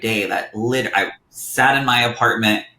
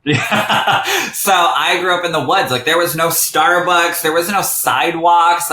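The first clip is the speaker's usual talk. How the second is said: laughing through the words, higher and louder; 8 semitones higher, 6 dB louder than usual. Real, not acted. Guest tells host about her woods childhood, laughing. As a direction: giggle out the memory of the woods.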